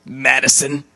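word by word, with long pauses; mock creepy quote. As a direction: imitate a creepy man, halting after each word. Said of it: "and he goes".

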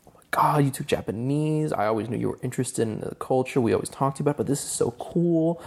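模仿亲戚兴奋的语气; excited relatives imitated. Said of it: "and they were like".

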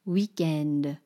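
weekend said the French way, wee-KEND; French accent. Shown as a demonstration. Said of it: "lean into whatever the caricature".

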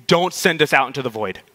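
lightly acted pleading, drawing out the last please; retold demons begging; mock begging. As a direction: plead in a string of repeated pleases. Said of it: "the demons are begging Jesus".

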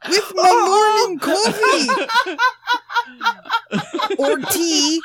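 hammed-up English accent hello; mock English accent; put-on English accent. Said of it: "Tell me that's your English accent".

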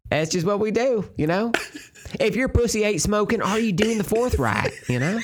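hick voice. Pretend. Jokey local yokel voice.

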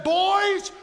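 loud, high order to the servants; Mary commanding. Acted. Mary ordering the servants to obey Jesus, loud. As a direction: boss the servants firmly. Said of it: "And she said".

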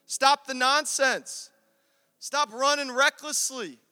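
urgent slow exhortation; preached command. Real, not acted. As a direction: hammer each stop.

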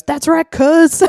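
high, drawn-out Southern holler; imitated Southern bystander. Man filming cheers on the ally, imitated Southern holler. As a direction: stretch it out loud in a Southern accent. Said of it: "the guy recording it goes".

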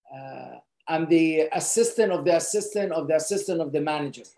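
mock rambling job title. Shown as a demonstration.

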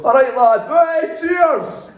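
loud, high, cocky toast; drunken overconfidence. Retold or imitated. Drunk man greeting approaching bouncers, loudly overconfident. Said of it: "in my drunken overconfidence".

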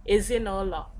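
"ezinụlọ" run together as one word, vowels elided. Shown as a demonstration. Teacher shows learner everyday speech, elided vowel. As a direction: say "ezinụlọ" joined up, dropping the vowel of na. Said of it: "you're speaking real fast".

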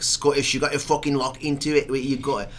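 sweary attempt at Scottish; Scottish accent. Shown as a demonstration. Host showing how to lock into it, Scottish accent. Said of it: "that and Scottish are the two accents".

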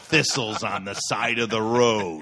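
mock-earnest gripe, cracking up; laughing farmer impression. Son imitating farmer griping about thistles, laughing.

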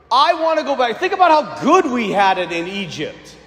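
lightly imitated grumbler; a touch of wistful complaint; mock complaining. Israelites longing for Egypt, mock complaining. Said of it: "They're complaining".

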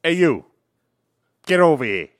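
loud gruff tough-guy shout; bad guy voice. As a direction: bark it like a movie villain. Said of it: "Do, like, the bad guy voice".

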